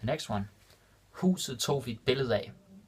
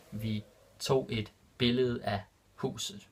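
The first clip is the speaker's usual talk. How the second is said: Vi tog et billede af huset drawn out slowly; slow and clear; slower than usual. Shown as a demonstration. Teacher repeating the Danish example for learners, slow and clear. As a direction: stretch it out so learners follow. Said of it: "repeated slower for learners".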